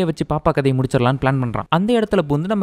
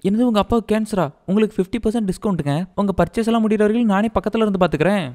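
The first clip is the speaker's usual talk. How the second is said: higher-pitched, lightly hammed-up shock and eagerness; mock concern; 5 semitones higher than usual. Gullible hero answering heroine's discount plea, hammed-up concern. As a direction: play an over-eager, gullible helper.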